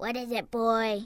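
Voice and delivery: croaking character voice. Reading a story, voicing Miss Pendersnarf questioning the boy, croaking. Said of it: "she croaked".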